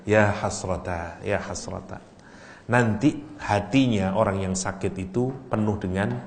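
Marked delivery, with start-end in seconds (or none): 0.1-2.0 regretful sigh. Shown as a demonstration. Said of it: "Itu maksudnya".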